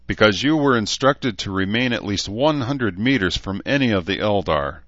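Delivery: lightly voiced formal elf lord; a touch of lofty reproach, ignoring the jibe; stern elf.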